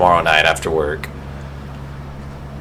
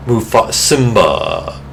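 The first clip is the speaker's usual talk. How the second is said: Mufasa voice; 2 semitones higher, much slower than usual. Retold or imitated. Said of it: "all the voices he does".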